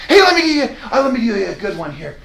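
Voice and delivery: high, bright mock eagerness; eager caving. Agent eagerly offering a discount, mock high eager voice. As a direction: overeager agent rushing to discount. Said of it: "you're like".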